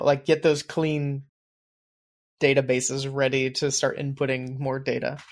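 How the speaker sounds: flat robotic delivery; monotone like a robot. Real, not acted. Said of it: "I sound like a robot".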